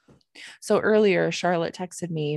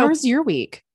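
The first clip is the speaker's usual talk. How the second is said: breathy unvoiced question; whisper; 8 semitones higher, 6 dB louder than usual. Real, not acted. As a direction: whisper it playfully to the co-host. Asks her co-host a question.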